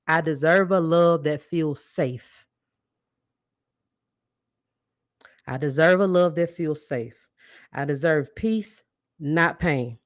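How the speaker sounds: slow, deliberate affirmations for listeners to repeat. Shown as a demonstration. Host leading listeners in affirmations, slow and deliberate. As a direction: lead the audience through it slowly. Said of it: "I'ma say it slow, though, but say it with me".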